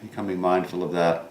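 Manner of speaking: calm meditation guide with long pauses; guided meditation. Real, not acted. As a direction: guide listeners gently inward, pausing between thoughts.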